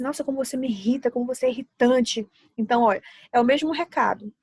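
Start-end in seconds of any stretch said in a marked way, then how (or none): 0.0-2.3 mock irritated snap. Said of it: "tem pessoas que falam logo assim".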